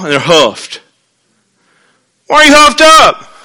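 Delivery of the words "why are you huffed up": teasing parent. Retold or imitated. Parent teasing sulking child.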